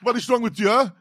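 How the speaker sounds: very high, loud furious shop owner; shouting shopkeeper. Acted. Shop owner screaming at the customer, very high and loud. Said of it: "if you can just shout this for me".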